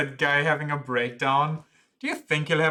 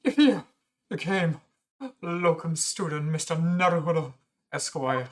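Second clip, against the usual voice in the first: breathy voice. Acted. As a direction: gush breathlessly at the friend. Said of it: "I gave him a breathy voice".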